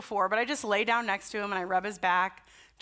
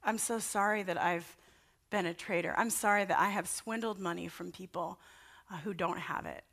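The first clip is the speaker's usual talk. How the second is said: hushed, lower, penitent murmur; imagined confession; 3 semitones lower, 6 dB quieter than usual. Acted. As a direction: softly act out a sinner's apology to Jesus. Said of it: "they began to just say".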